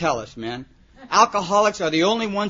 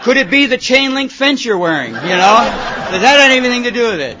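laughing sarcasm; 3 semitones higher, 5 dB louder than usual. Retold or imitated. Sponsor laughs while mocking the kid's chain-link outfit. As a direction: tease him through laughter. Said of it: "I said".

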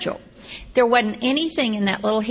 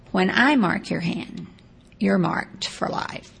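retold pickup line; 3 semitones lower, slower than usual. Retold pickup line, slow delivery.

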